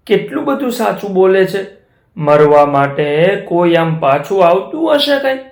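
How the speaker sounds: lightly voiced tiger touched by honesty; choked-up tiger. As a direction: tiger moved by the cow's honesty. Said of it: "ગળગળો થઈ ગયો".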